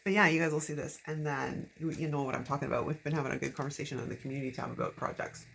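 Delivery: dry-mouthed, sticky speech. Real, not acted. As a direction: talk through a parched mouth. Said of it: "I'm battling dry mouth this morning really badly".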